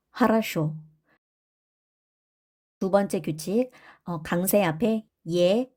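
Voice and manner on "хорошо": 하라쇼 with both early o's as a; unstressed o as a. Shown as a demonstration. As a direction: say 하라쇼, stress on the final o. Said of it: "강세 없는 오는 아로 발음을 한다".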